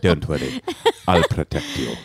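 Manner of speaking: half-copying the posh British line; echoing partner's posh British voice, lighter; lightly repeated British accent. Retold or imitated. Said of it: "That's a great British accent".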